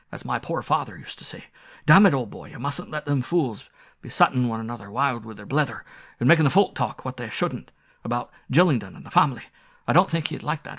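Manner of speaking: irritable rustic squire, swinging up in pitch; blustering country squire. Acted. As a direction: argue gruffly with an old servant, easing towards the end.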